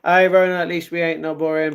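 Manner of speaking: ordinary delivery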